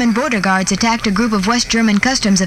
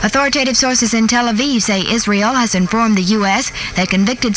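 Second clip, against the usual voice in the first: put-on old newsreel. Reads the radio news bulletin.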